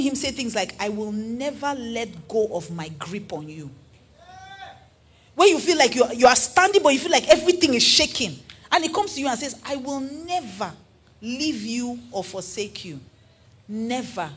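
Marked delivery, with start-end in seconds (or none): 0.8-3.7 tender. Acted. Preacher voicing God's promise. 9.6-14.3 softer, slow, tender promise as God; gentle, slow divine reassurance; soft reassuring. Acted. Preacher voicing God's reassurance.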